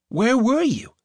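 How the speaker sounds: lightly voiced young girl asking; a hint of a girl's curious voice. A narrator's reading. Gemma questions Benedict.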